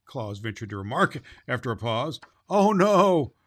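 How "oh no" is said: firm, louder and higher refusal; decided. A narrator's reading. The deer Flossie refuses to carry Claus, firm and loud. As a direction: turn him down firmly. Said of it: "said Flossie decidedly".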